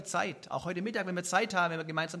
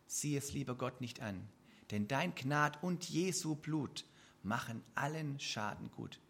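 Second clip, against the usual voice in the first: mindful prayer; 6 dB quieter than usual. Shown as a demonstration. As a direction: pray every line with meaning. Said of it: "ganz gewusst, bewusst beten". (bewusst und ruhig gebetet)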